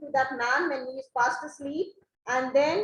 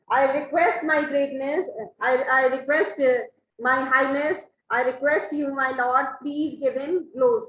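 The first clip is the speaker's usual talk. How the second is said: loud pleading; 4 dB louder than usual. Acted. Caliban begging his new lord for blows, loud and pressing. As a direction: voice raised, pressing Stefano to strike.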